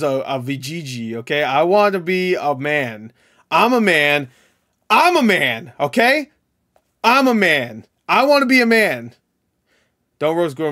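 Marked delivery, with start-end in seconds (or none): 1.4-9.1 higher and louder, hammed-up insistence; mock macho rant. Ranting to chat about game characters, hammed-up loud. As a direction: yell it like a fake tough guy.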